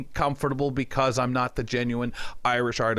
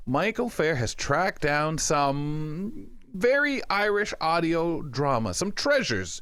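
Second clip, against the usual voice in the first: radio host's segment intro; 3 semitones higher than usual. Real, not acted. Host introducing Michael's Irish audio drama picks, animated presenter delivery. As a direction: tease the segment, stretching out key words.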